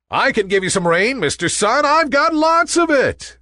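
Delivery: eager offer. A narrator's reading. Nimbus offering rain to the Sun, eager. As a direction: pipe up keenly, rising to a high finish.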